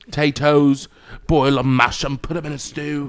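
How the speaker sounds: mock British quote; lightly British-voiced; British accent. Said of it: "quoting British things".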